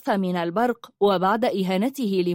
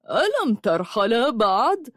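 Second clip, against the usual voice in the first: mocking question to unwelcome guests; mild sarcasm; 3 semitones higher than usual. Taunting two visitors still at the palace, mildly sarcastic. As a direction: needle them with a sarcastic question. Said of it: "قال بتهكم".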